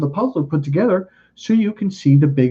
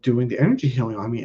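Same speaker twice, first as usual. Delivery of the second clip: normal talking voice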